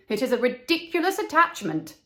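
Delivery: mock the silly romance; twittering swallows. Other swallows gossiping about the reed, mild twittering. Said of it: "twittered the other swallows".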